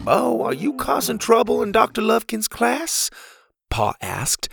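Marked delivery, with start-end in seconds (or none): 0.0-3.1 stern father. A narrator's reading. Father questions son.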